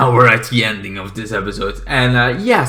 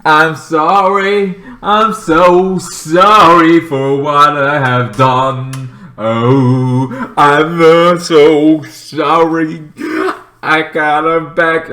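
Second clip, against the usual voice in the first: mock begging; 4 semitones higher, much slower than usual. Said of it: "goes begging to Supergirl".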